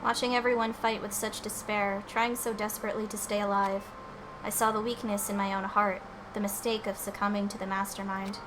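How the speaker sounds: softly voiced Sakura; voiced game character. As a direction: read it as the stoic fighter. Reads game character's lines.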